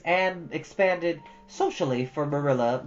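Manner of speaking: plain reading voice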